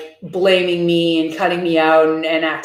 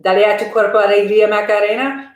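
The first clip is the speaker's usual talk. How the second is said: quick, run-together chant of the lyric; faster; 2 semitones higher, 3 dB louder than usual. Shown as a demonstration. Copying how fast he sings the Spanish lyrics, faster. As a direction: rattle the Spanish line off fast. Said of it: "he says it way faster than that".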